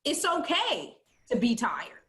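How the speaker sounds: slow, deliberate reassurance; slowly spoken comfort; slow affirmation. Shown as a demonstration. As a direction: say it slowly like a gift. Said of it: "Let's say it".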